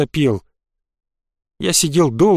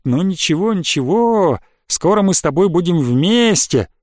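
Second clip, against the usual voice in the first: mock encouragement; 2 semitones higher than usual. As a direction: soothe the victim like a friendly skeleton. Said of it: "так ободряюще похлопывает и говорит". (зловеще-ободряюще)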